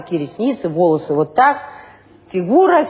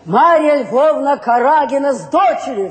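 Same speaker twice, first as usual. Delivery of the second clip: mock trumpet-like yell; 4 semitones higher than usual. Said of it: "заорала нечеловеческим голосом, вот как ерехонская труба".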